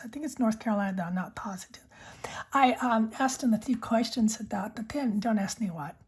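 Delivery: unvoiced ASMR whisper. Real, not acted. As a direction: breathe the words close to the mic. Whispered ASMR pen chat.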